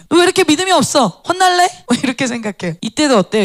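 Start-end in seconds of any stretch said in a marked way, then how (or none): 0.1-1.7 loud, high-pitched telling-off; imitating an angry, scolding Jesus; stern scolding. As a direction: scold as if threatening punishment. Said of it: "예수님 막 호통치고 막 명령하고".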